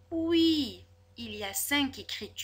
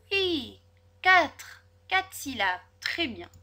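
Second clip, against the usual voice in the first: excited; 3 semitones higher, 7 dB louder, slower than usual. Shown as a demonstration. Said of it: "teacher praising answer".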